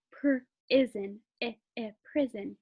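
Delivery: PRISON broken up as "pr-izzen", then blended; short I sounded out. Shown as a demonstration. Teacher confirming the right word, short I sounded out. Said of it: "gonna have the I sound".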